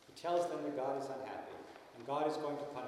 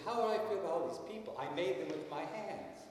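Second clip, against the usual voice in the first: impassioned God; 5 semitones higher than usual. Retold or imitated. God telling Jonah how he feels about the people, impassioned. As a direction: plead for the people with feeling. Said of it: "some of these things are so emotional".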